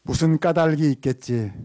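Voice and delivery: projected line for the congregation to echo; leading a repeat-after-me. Shown as a demonstration. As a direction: call it out evenly for everyone to repeat. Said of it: "여러분, 한번 따라합시다".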